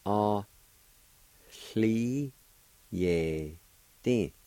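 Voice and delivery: slowly separated syllables, each held out. Shown as a demonstration. Teacher showing learners how fiddle is pronounced, syllable by syllable. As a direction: break the word into slow, spaced syllables. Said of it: "It's pronounced like this".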